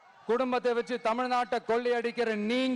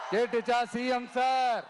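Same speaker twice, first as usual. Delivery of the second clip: taunting call. Pretend.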